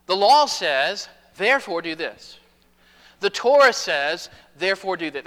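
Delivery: lightly voiced scribe quoting the law by rote; scribe's rote legal citing. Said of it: "That's how the, the scribes talked".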